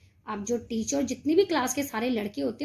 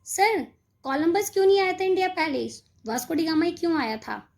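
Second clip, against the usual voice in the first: cheeky student question; 4 semitones higher than usual. Acted. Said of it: "वो खड़े होके बोलता है".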